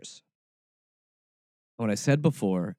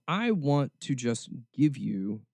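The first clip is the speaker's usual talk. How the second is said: ordinary talk, nothing marked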